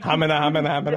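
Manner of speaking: dumbfounded stammer. Retold or imitated.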